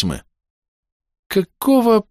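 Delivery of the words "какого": high, creaky, ominous exclamation; a sinister creak in the voice; much higher startled female voice; eerie creaking voice. A narrator's reading. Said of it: "со зловещим странным скрипом в голосе".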